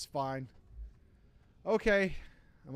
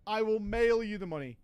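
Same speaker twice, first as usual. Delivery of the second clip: louder insistent no, no, no; exasperated refusal; 2 semitones higher, 4 dB louder than usual. Retold or imitated. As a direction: shut him down firmly.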